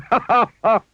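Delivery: a giggly clumsy visitor, chuckling at his own joke; cheery Mister Bump laughing at his bump pun. A narrator's reading. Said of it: "smiled Mister Bump".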